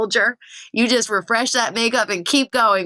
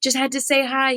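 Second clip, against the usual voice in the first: eager fan; 6 semitones higher than usual. Retold or imitated. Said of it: "I'm like".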